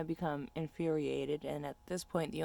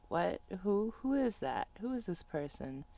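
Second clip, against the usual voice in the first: confused; 2 semitones higher than usual. Retold or imitated. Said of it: "I get very confused because I'm like".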